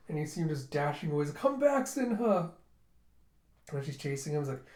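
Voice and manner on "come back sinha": high, slow, loud call. Retold or imitated. Girl calls after Sinha dashing away, calling out. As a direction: stretch it out to reach someone running off.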